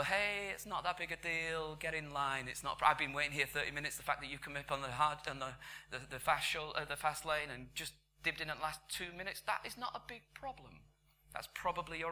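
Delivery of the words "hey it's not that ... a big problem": feigned patience over a grievance; gracious act wearing thin, rising in pitch at the end; mock gracious. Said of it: "you're all very gracious and go".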